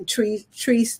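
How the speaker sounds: Caribbean island accent slipping out; Caribbean lilt on three. Real, not acted. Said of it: "my island accent is jumping out".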